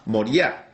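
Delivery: "Moriah" stressed on the final A; "Moriah" with the accent landing on its ending. Shown as a demonstration. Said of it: "lo hace con tilde en la A".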